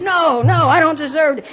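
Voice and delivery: high, worked-up refusal; hammed-up distress, pitch way up; mock distraught protest. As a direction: re-enact an overwrought protest. Retold tearful refusal of reassurance.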